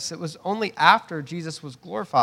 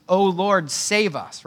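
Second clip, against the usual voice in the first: crowd cry; 3 semitones higher, 3 dB louder, slower than usual. Retold or imitated. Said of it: "And they're shouting".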